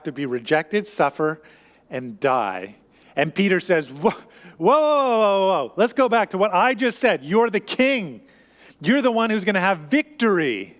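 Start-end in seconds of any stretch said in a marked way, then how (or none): 3.9-10.7 higher, urgent whoa, whoa, pulling Jesus back; alarmed protest. Acted. Peter, alarmed, protesting to Jesus about his death: urgent, higher objection. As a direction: stop him in alarm and insist he's the king.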